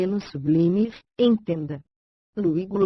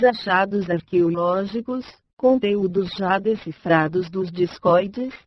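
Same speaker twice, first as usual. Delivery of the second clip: synthetic computer reading voice, bright and even; chipper text to speech voice. Real, not acted. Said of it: "Voz sintetizada, I B M Voice, voz Raquel". (voz sintetizada animada)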